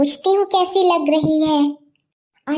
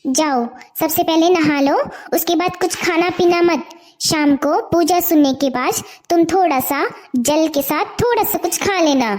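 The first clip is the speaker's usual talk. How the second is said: put-on lower, firm older sister scolding; stern elder sister; 4 semitones lower than usual. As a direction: put her younger sister in her place. Elder sister instructs Seema. (बड़ी बहन की सख़्त डाँट)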